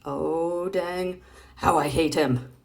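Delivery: sweet on top, spiteful underneath; cartoon boy's two-faced aside; fake-friendly boy. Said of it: "And then there's Charlie Brown".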